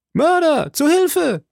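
very high, loud shriek of alarm. A narrator's reading. Servant Patrick sees the stabbing, shrieks for help. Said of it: "kreischte Patrick".

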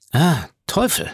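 understated cry of dismay; exclaiming. A narrator's reading. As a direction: exclaim it with a light character touch. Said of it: "rief Monte Cristo".

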